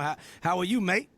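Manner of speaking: playful, badly faked Aussie lilt; bad Australian accent. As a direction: try a clumsy Australian accent. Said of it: "That's a bad Australian accent".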